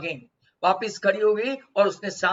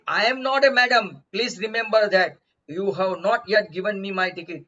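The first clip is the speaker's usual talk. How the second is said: put-on indignant girl; much slower than usual. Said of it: "very angry glance, and said".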